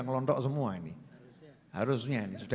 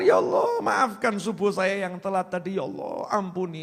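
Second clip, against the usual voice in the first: pleading prayer. Retold or imitated. Sinner begging forgiveness.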